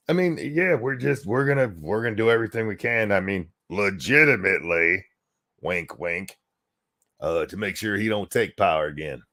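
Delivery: lightly put-on Southern accent; mock a politician with a hint of Southern accent. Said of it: "a Southern accent".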